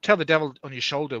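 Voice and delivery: half Australian, half small-town English; muddled Australian-English accent. Acted. Reader voicing a friend's dialogue, muddled Australian-English accent. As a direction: attempt Australian with English leaking in. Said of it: "Australian father, small English town mother".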